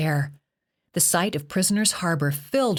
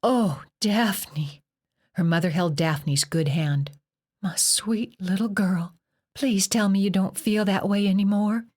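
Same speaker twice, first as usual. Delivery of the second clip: tender; 3 semitones higher than usual. Acted. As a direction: plead gently with her. Mother shocked and tender.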